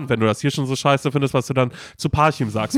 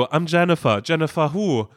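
lightly higher, playful back and forth; mock music video dialogue; 4 semitones higher than usual. Joking retelling of the music video, lightly higher voices. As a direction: toss the lines like a cheesy clip. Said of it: "wie bei einer Sängerin in dem Video".

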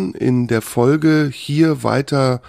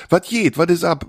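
Berlin slang; 7 semitones higher than usual. Shown as a demonstration. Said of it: "das ist ja berlinerisch".

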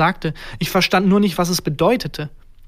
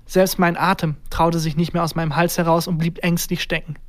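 usual speaking voice

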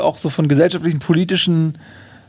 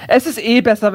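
higher-pitched, lightly voiced kangaroo; a hint of know-it-all helpfulness; easygoing kangaroo; 5 semitones higher than usual. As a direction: explain it as the unbothered kangaroo. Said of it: "sagt das Känguru".

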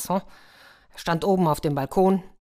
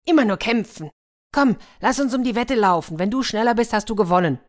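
higher, louder dragon voice; cheeky dragon proposing a race; playful dragon; 5 semitones higher, 4 dB louder than usual. A narrator's reading. Dragon challenges prince to a race, high and loud.

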